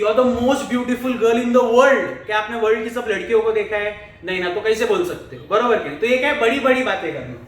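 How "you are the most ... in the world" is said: slow, louder mock flattery; flattering line. Boy to girl, a slow hammed-up compliment. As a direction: lay the compliment on thick. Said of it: "लड़की लोग क्यों बोलते हैं".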